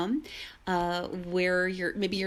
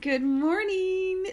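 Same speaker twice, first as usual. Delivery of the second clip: drawn-out, much higher cheery greeting; cheerful sing-song; 11 semitones higher, slower than usual. Shown as a demonstration. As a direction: stretch it out slowly and brightly. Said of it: "this is for Sabrina Peterson".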